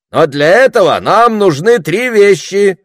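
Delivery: high, loud announcement; shouted oratory. A narrator's reading. Orator announcing his conditions to the crowd, shouting. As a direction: proclaim it as something momentous. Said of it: "выкрикнул оратор".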